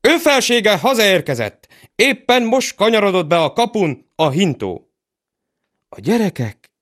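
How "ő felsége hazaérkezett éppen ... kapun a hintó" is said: high flustered steward; excited. Acted. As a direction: blurt it out in a fluster.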